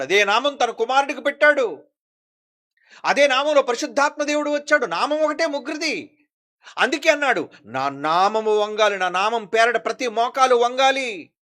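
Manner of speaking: loud, high-pitched sermon delivery; forceful preaching. Acted. Preacher declaring the one Name to the congregation, forceful preaching.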